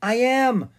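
high, loud amazement; astonished exclamation; astonished cry. A narrator's reading. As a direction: cry it out, pitched far up in surprise. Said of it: "Stanley cried in astonishment".

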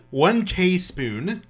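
slow mock British accent; laughing mock British accent. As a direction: read it like a posh Brit, drawn out. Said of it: "I just did it in the British accent".

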